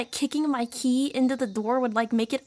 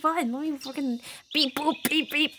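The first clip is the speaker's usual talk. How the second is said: mock robot beeps; 2 semitones higher than usual. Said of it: "activating anime voice".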